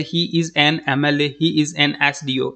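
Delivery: letters read out slowly one by one; slow teaching demo. Shown as a demonstration. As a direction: dictate the examples slowly to the class. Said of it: "N जो है वो उसको लगाते हैं".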